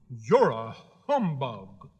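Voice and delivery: slow, drawn-out reproach; grieved. A narrator's reading. Scarecrow accuses the false wizard, grieved. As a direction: stretch the accusation out in disappointment. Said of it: "said the Scarecrow in a grieved tone".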